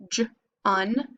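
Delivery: J then un, sounded separately; syllables apart. Shown as a demonstration. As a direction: sound out each part. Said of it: "Put them together".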